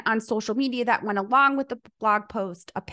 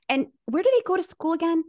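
teasing question; 7 semitones higher than usual. Retold or imitated. Coaxing client toward the obvious.

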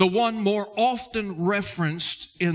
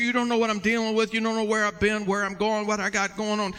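fast, higher protest to the preacher; hurried, put-upon objection on one raised note; objecting church member; 4 semitones higher than usual. Acted. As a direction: mimic a congregant rattling off excuses.

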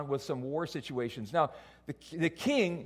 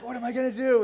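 mock helplessness; 8 semitones higher, 6 dB louder, faster than usual. His helpless reaction, retold.

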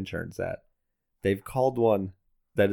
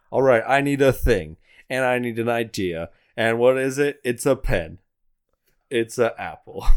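excited pitch; 3 semitones higher, 6 dB louder than usual. Acted. Mock pitch brainstorm.

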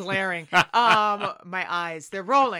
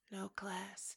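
whispered with quiet disdain; 14 dB quieter than usual. Retold or imitated. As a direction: drop to a scornful whisper. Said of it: "he's like".

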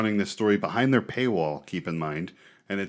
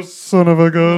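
loud exclamation; 7 semitones higher, 13 dB louder, slower than usual. Pretend. Repeated catchphrase, loud.

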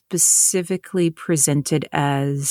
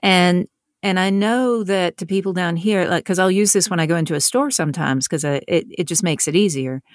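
demonstrating her Southern accent. Shown as a demonstration. Author showing interviewers her store voice, Southern accent. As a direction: slip into an easy Southern accent. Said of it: "when I'm talking like this".

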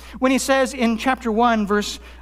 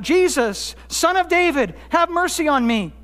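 mild retold cry for help, pitched up; 5 semitones higher than usual. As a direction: call out pleadingly, without really shouting. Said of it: "He cried out".

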